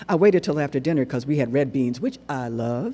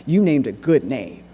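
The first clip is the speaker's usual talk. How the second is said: put-on old man Tweezer; 6 dB louder than usual. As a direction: lean in and press each word. Old man Tweezer speaking earnestly.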